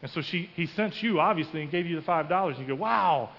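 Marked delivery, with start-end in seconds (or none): 2.8-3.3 high, drawn-out wow of amazement; acted awe, pitched up; impressed wow. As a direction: marvel at it, stretched out. Voices listeners' reaction to story.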